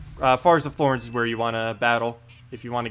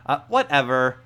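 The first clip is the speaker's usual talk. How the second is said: spoiled princess; slower than usual. Acted. Princess character dialogue.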